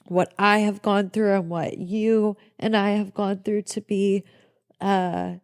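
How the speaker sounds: crying, catching breath between words; catching breath midword. Real, not acted. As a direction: gasp for air mid-sentence through tears. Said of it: "I'm so sorry I'm crying".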